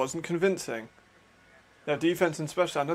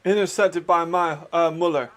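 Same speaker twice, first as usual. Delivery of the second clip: excited play call; 3 semitones higher, 7 dB louder than usual. Real, not acted. Live call of the interception.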